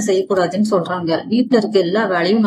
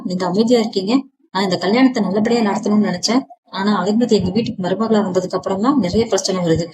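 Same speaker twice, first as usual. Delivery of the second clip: angry. Acted. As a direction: scold the father with understated anger. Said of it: "Thangaraj கோபமா". (மிதமான கோபத்துடன் திட்டுதல்)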